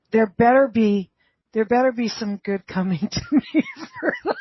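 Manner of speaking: half-laughing a mock demand of luck. Telling friends about the spider, laughing as she speaks. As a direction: chuckle through the grumble. Retold thought, laughing through it.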